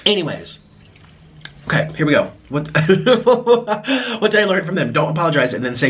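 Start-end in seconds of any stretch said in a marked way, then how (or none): 2.7-4.1 sudden high-pitched laugh; high burst of laughter. Real, not acted. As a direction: burst out laughing before you can start. Laughs before starting her apology.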